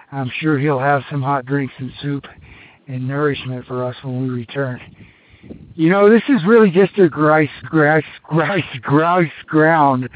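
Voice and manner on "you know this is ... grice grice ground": stumbling over words, short of breath; tongue-tied at altitude. Real, not acted. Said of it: "Can't talk at high altitude".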